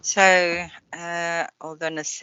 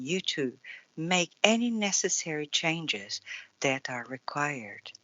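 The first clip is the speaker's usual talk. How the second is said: card reading; 3 semitones lower than usual. Acted. Reads the card message.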